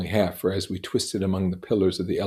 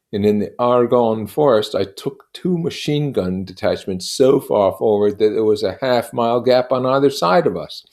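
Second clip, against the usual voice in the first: higher, louder, proud storyteller; Gatsby's voice; 6 semitones higher, 7 dB louder than usual. Acted. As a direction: boast of war glory grandly.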